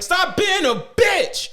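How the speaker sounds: high, slow, shouted taunt; hammed-up shout from the sidelines; mock yell. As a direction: yell it like an angry friend. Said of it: "He was like".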